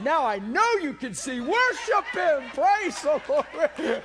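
loud, slow, laughing praise; joking exuberance. Real, not acted. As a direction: ham up the worship call. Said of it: "I just had fun with it".

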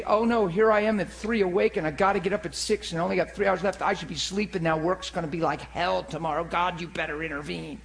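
understated mock grumble, running on and fading; grumbling in bed. Preacher acting out someone awake at three, grumbling. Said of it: "you mumble and grumble in your bed".

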